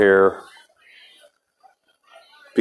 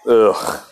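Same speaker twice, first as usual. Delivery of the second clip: disgusted groan. Real, not acted. Recalling the drinks he hates.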